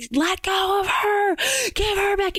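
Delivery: high, slow pleading cry at the unseen thing; desperate plea. Retold or imitated. Husband yelling at the entity.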